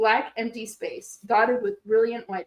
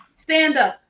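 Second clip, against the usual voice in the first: loud barked order; commanding shout; 4 semitones higher, 7 dB louder than usual. Acted. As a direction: bark the order. Robot teacher gives an order.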